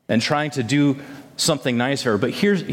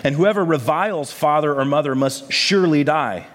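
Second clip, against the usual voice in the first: measured, formal Bible reading; scripture reading. Acted. Pastor reading scripture to his church, measured and formal. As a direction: read the passage steadily to the congregation. Reads scripture aloud before sermon.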